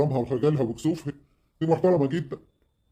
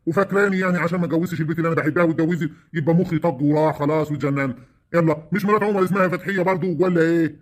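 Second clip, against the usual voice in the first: offended brother snapping back at his sister; indignant protest; 4 semitones higher than usual. Acted. Uncle argues with sister. (احتجاج غاضب بصوت أعلى)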